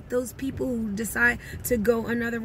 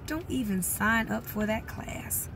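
whispered advice; 5 dB quieter than usual. Retold or imitated. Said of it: "as Jim Rohn says".

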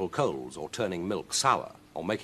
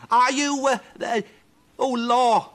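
high, loud flustered witch; frightened stammer; 10 dB louder, slower than usual. Acted. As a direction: stammer in panic before the cat.

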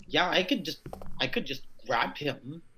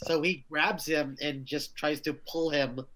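normal talking voice

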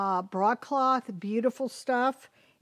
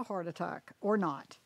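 whisper; 4 semitones lower, 7 dB quieter than usual. Real, not acted. Whispered aside.

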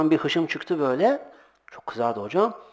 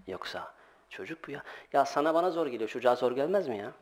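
ordinary talk

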